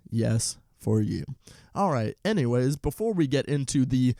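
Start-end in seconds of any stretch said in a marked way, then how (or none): 0.1-1.3 slow, drawn-out for you. Shown as a demonstration. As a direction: draw it out slowly. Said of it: "it is for you".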